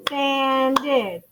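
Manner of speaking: "Sanded" stretched into two beats, san, ded; clapped-out syllables. Shown as a demonstration. Teacher claps it for class, "Sanded" in two separate beats. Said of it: "sanded has two syllables".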